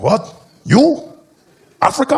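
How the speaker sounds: high, rising disbelief; imitating a shocked stranger; incredulous. Shocked stranger questioning in retold scene.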